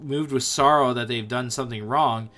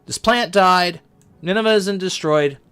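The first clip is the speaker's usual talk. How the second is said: mock angry Jonah; 4 semitones higher than usual. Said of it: "he was so angry".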